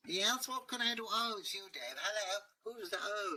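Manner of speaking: a hint of a posh dragon; lightly voiced dragon. Dragon answers, high voice.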